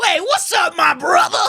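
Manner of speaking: mock bro greeting. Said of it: "you go".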